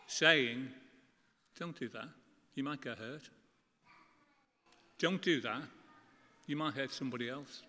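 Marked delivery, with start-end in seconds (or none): 1.6-7.6 gentle, softer parental warning; God as loving parent gently warning his children. Retold or imitated. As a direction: caution a child tenderly, like a caring parent. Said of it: "as a loving, caring God".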